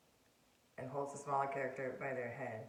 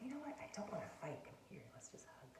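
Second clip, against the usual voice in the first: mock tender invitation; 5 dB quieter than usual. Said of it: "Be like".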